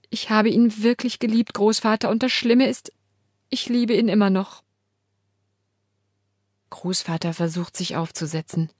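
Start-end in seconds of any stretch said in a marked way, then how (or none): 0.1-4.6 tearful. Acted. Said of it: "Jetzt schluchze ich haltlos".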